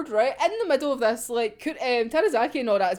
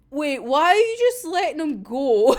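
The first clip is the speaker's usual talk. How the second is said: louder, alarmed Atsushi calling out; alarmed shout; 3 semitones higher, 4 dB louder than usual. Retold or imitated. Atsushi protests to Kurikida, alarmed shout. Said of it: "Ashishi's just like".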